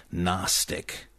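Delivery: "Gnostic" as NOSS-tik; silent G. Shown as a demonstration. Closing the correction, "Gnostic" with silent G. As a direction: leave the G out of "Gnostic". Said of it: "The G is silent".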